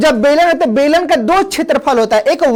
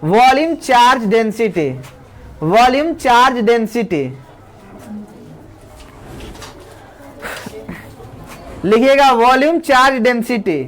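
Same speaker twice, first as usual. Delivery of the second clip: dictating a heading; 2 semitones lower than usual. Shown as a demonstration. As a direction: give the term for students to copy. (धीरे-धीरे लिखवाना)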